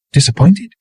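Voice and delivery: high rising disbelieving echo; sharp high questioning; incredulous. A narrator's reading. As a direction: she can't believe the word.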